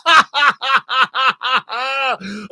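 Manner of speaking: loud elated laughter; joyful shouting laugh. Real, not acted. Laughing after goal.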